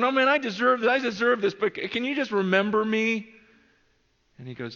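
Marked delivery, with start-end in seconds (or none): 0.0-3.3 high, urgent plea; pleading. Retold or imitated. Dying thief asking Jesus to remember him, pleading. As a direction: beg in a raised, repentant voice.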